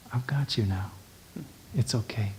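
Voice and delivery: put-on hushed whisper to a crying baby; soft comforting whisper; soothing whisper. Shown as a demonstration. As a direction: whisper it gently to calm the child.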